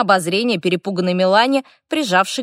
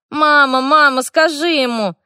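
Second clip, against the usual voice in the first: высоко и громко, жалобно к маме; ребёнок ябедничает маме; хнычущий зов; 7 semitones higher, 5 dB louder than usual. A narrator's reading. Спящий эльф зовёт маму. (спящий мальчишка громко и высоко зовёт маму)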